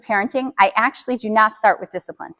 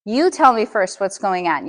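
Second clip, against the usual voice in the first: calm and low; slower than usual. Shown as a demonstration. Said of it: "You see how you just brought it down".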